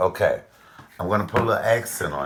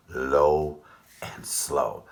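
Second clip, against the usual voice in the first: whispered; 3 semitones lower, much slower than usual. Shown as a demonstration. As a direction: breathe the word out in a whisper. Cooking tip, drawn-out ending.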